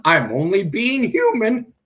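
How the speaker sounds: loud, sarcastic apology; indignant outburst; upset. Real, not acted. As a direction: snap it out, fed up. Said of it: "I guess I'm upset now".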